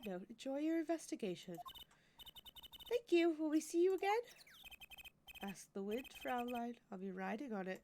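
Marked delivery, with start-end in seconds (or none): 5.4-7.8 mock German accent. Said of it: "learn a German accent during the week".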